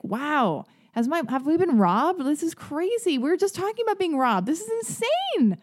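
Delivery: giddy at being robbed, voice climbing; excited. Retold or imitated. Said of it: "I was, like, so excited".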